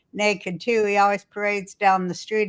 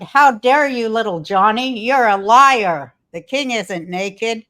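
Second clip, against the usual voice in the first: hammed-up outrage at the kid; mock scolding; 5 dB louder than usual. Crowd scolding little Johnny, mock indignant loud scolding. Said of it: "So they're like".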